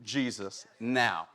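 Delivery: a hint of a desperate dad, slowing and dropping; pleading, slow and low at the end; father Jairus begging for Jesus. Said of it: "And he's like".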